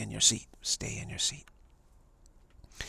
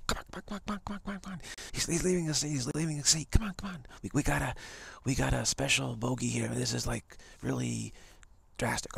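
excited usherettes; 3 semitones higher than usual. Retold or imitated. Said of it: "and they go".

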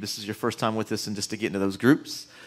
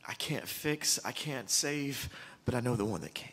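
emotional; 2 semitones higher, 5 dB quieter than usual. Real, not acted. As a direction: confess helplessness with feeling, drawing out the words. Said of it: "I'm so sorry I'm emotional".

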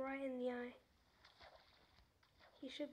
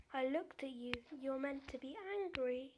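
taunting; 4 dB louder than usual. Real, not acted. Taunting the Enderman louder.

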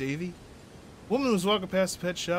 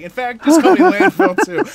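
retold movie line; 9 semitones higher, 14 dB louder than usual. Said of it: "He's like".

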